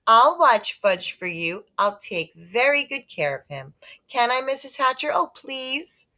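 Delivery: high, eager pleading; begging girl. Acted. Sheila begging Mrs. Hatcher to babysit, high eager plea. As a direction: beg sweetly to be allowed. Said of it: "begged some more".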